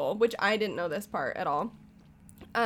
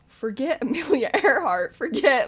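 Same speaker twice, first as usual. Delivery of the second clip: mock dramatic quote; 3 semitones higher, 6 dB louder than usual. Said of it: "this article was like".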